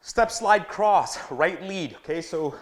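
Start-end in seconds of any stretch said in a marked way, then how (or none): 0.1-1.2 slow, drawn-out high call; drill cue call. Shown as a demonstration. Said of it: "calls footwork cue".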